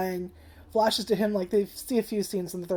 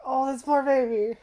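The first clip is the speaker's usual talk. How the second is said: tearful pity; 6 semitones higher than usual. Retold or imitated. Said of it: "'Cause I was just like".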